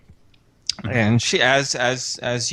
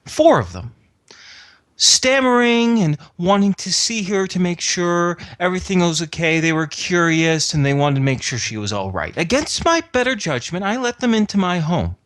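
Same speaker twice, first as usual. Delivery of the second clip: aggrieved, pitched-up retelling of events; indignant account; 6 semitones higher than usual. Acted. Host protesting to the inspector about uninvited visitors, indignant. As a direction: defend yourself with rising indignation.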